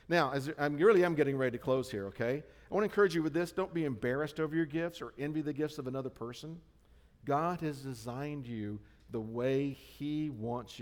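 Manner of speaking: forceful climax of the sermon; loud preaching. Real, not acted. Pastor builds to closing exhortation.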